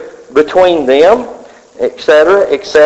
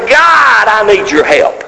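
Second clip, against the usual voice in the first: crying out; 3 semitones higher than usual. Retold or imitated. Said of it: "I cried out, and I said".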